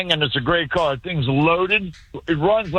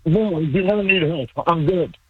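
distant, muffled phone voice; bottom-of-a-well sound. Real, not acted. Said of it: "sound like you're in the bottom of a well".

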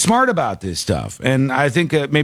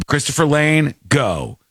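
curt. Retold or imitated. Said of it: "I'd say the caller's name".

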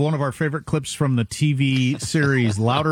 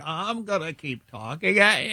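mock relentless talker; 4 dB quieter than usual. Imagines relentless talker at cliff.

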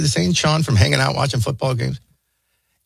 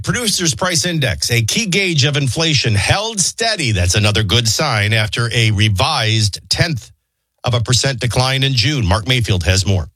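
news read; 6 semitones lower than usual. Acted. Reads the news.

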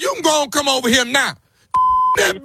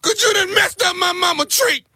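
fake crying; 5 semitones higher than usual. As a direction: wail it through tears. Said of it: "What the hell you crying for".

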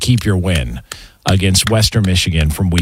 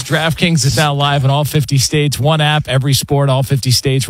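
ad read; 3 semitones higher than usual. Acted. Reads DraftKings ad.

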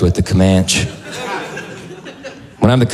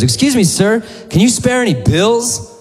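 high-pitched put-on pleading voice; imitated street beggar; homeless woman begging; 12 semitones higher than usual. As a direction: beg a passerby, pitched way up. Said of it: "I passed a homeless woman".

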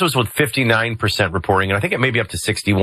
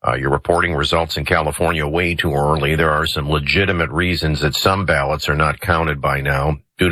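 lightly voiced field reporter, mostly pitched lower; Roger; 4 semitones lower than usual. Field reporter emails in results from California, lightly put-on low voice. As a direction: read it out in a slightly lowered, put-on voice. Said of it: "should I do it in Roger's voice?".

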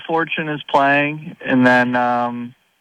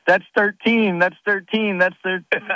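higher-pitched mock yell, no real volume; retold yelling; 5 semitones higher than usual. Retelling a playing partner's reaction on the green, mock yelling. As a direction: imitate an excited golfer's repeated cry. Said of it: "he starts yelling".

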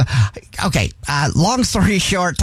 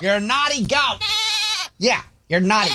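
high-pitched scolding of a naughty goat; 11 semitones higher, 4 dB quieter than usual. Acted. Prank caller scolds goats in the house, high and scolding. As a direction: tell off the goat like a pet owner.

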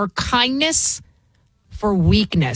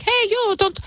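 Irish imitation; 12 semitones higher than usual. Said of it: "that woman's like".

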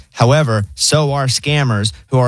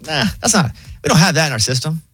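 much higher, breezy AI voice; chill robot voice; 5 semitones higher than usual. Retold or imitated. Pharmacy AI asking for the birth date, high chill voice. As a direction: toss it off like a laid-back machine. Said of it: "They're like".

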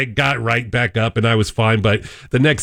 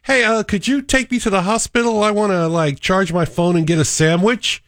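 higher, pleading, casual guy; whiny patient impression; 7 semitones higher than usual. Cohost voices the man begging the paramedic for a ride, higher. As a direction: ask for a ride like it's a taxi. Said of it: "He says".

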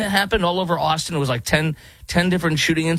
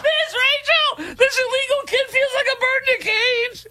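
mock kids' host. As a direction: whine it like the host, cracking up. Parodies the host clip again.

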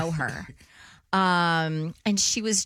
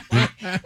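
laugh. Real, not acted. Laughing at own bluff.

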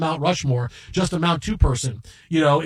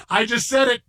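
louder, higher, disbelieving; giddy confession; 6 semitones higher, 4 dB louder than usual. Retold or imitated. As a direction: blurt it with stunned glee. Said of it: "just laughing".

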